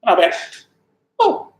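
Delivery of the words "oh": tiny high-pitched "oh"; helium squeak. Retold or imitated. Hairdresser offered the Queen's hair, helium-high squeak. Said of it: "like it's about helium".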